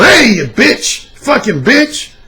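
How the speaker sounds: mock harsh ranting. Shown as a demonstration. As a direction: bark insults with contempt. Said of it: "in a real harsh tone".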